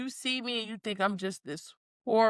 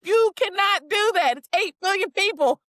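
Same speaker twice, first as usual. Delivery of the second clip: emphatic teasing; 9 semitones higher, 5 dB louder than usual. Real, not acted. Emphatic scolding friend.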